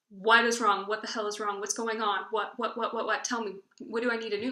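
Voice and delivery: a mom's alarmed, pressing questions, first one loud; lightly voiced mom, panicked and urgent; mild mock alarm from a worried mother. Mom worried at crying daughter.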